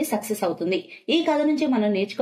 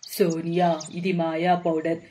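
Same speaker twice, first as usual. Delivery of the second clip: put-on sly old witch. Witch hands over magic powder.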